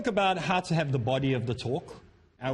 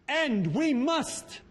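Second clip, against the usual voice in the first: much higher, stretched out, bursting start; a sudden booming outburst, dragged slow; sudden thunderous opening; 11 semitones higher, much slower than usual. Retold or imitated. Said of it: "like, a thunder crack went off".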